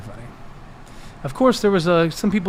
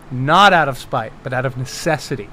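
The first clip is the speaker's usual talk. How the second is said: lower, settling from emphatic to calm; measured justification; 5 semitones lower than usual. Pretend. Game master justifying spell as necessity, measured justification. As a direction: restate it soberly, easing off.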